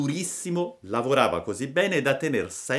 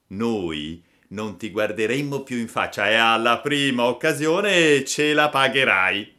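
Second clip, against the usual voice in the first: threatening bully; 2 semitones higher, 6 dB louder than usual. Acted. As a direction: warn him he'll pay. Boys threaten Pinocchio. (minaccia da bullo)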